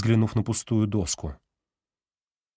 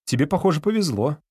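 загадочно; 6 semitones higher than usual. A narrator's reading. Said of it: "загадочно улыбнулся он".

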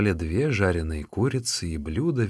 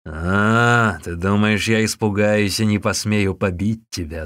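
louder scornful shout; monk shouting back at the bully; 6 dB louder than usual. Acted. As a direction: fling the challenge back. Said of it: "закричал Усун".

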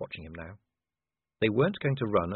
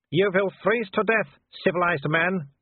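much higher, loud taunting werewolf voice; Wolfgang; 8 semitones higher, 4 dB louder than usual. Acted. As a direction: sneer at the cornered man from below. Wolfgang's voice held.

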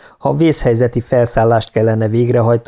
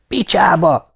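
higher-pitched curse, only slightly raised; mild frustrated shout; 7 semitones higher than usual. A narrator's reading. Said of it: "kiáltotta Louise". (visszafogottan felkiáltott, magasabb hangú káromkodás)

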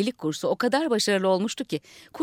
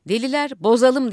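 loud rallying cry, higher; shout; 4 semitones higher, 6 dB louder than usual. A narrator's reading. Madmen shouting to each other, loud. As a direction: rouse the crowd to wreck it all. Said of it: "diye bağırdılar".

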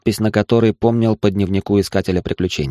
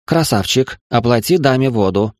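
wheedling strange creature woman; 4 semitones higher than usual. Acted. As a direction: coax him like a pushy alien beggar. Creature begs newcomer for water.

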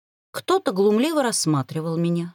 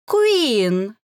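louder, drawn-out taunting sing-song with a rise; sing-song name; 3 semitones higher, 4 dB louder than usual. Acted. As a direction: sing her name mockingly. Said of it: "пропела девица". (пропеть имя с издёвкой)

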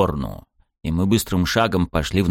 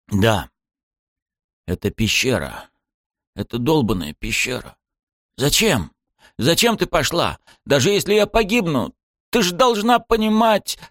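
rising to a much higher, anguished shout; angry outburst; 9 semitones higher than usual. A narrator's reading.

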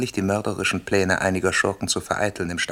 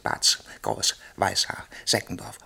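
whispered names. Acted. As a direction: breathe the names like a secret. Informer naming conspirators secretly.

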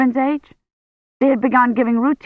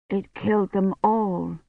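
faint fearful murmur; 6 dB quieter than usual. Acted. Feverish patient frightened.

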